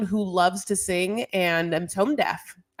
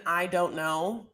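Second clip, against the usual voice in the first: "know" drawn out slowly; sound of NO in "know"; 3 semitones lower, 6 dB quieter, slower than usual. Shown as a demonstration. Pointing out the hidden no, "know" drawn out. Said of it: "how the sound no is in".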